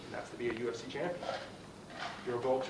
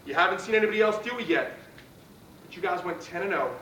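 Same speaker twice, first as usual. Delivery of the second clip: pep talk; 4 semitones higher, 3 dB louder than usual. Real, not acted. Pre-game pep talk to team.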